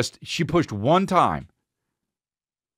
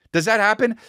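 wife's question; 11 semitones higher, 3 dB louder than usual. Retold or imitated. Voices wife's question to nurse.

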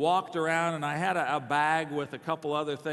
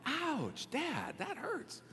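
high, soft little yelp of hurt; hammed-up hurt, pitched way up and quiet; mock wounded; 12 semitones higher, 8 dB quieter, much slower than usual. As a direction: squeak it out like a wounded kid. Mock wounded reply to father's jibe.

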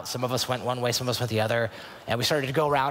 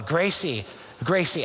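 calling out; 5 semitones higher, slower than usual. Retold or imitated. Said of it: "my asking starts to turn into yelling".

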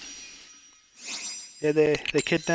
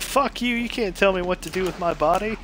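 higher, bratty hammed-up defiance; defiant mock retort; 6 semitones higher than usual. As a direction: throw it back like a spoiled brat. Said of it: "And he's like".

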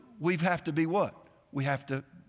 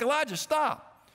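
put-on higher, drawn-out warning to a child; urgent parental call; 9 semitones higher, slower than usual. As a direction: call your son back from the road. Father calling to son near road.

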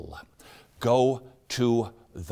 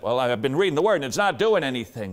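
fast, louder, mock-exasperated whine; frustrated complaint; 2 semitones higher, 4 dB louder, much faster than usual. Host imitating a frustrated believer, fast mock complaint. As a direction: rattle off the complaint like a fed-up believer.

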